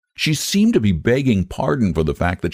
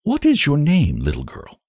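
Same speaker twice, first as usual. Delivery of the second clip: more gently; 10 semitones higher than usual. A narrator's reading. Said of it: "but more gently".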